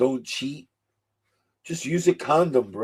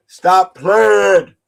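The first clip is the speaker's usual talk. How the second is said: louder second time, pressing it; a firmer repeat of stop playing; louder insistent; 3 semitones higher, 11 dB louder than usual. Real, not acted. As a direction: push it harder, more insistent.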